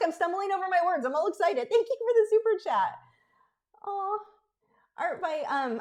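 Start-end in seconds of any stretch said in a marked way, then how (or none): 1.7-5.8 choking up with tears, higher and louder. Thanking a viewer for a super chat and reading the next, tearing up. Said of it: "I'm tearing up again".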